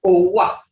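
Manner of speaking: Owa with a rounded Creek O; Creek pronunciation. Shown as a demonstration. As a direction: say Owa as "oo-wuh". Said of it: "It's owa".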